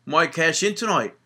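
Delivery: put-on a weak first stab at an Irish accent; halfhearted Irish accent imitating Sheamus; bad Irish accent. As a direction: try an Irish accent and miss. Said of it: "That was an awful accent".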